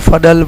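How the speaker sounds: "فضل" with d, "fadal"; dwad-style reading. Shown as a demonstration. Teacher shows the changed name, "فضل" as fadal. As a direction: put a d in place of z in "فضل". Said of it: "جب ہم دعاد پڑھیں گے".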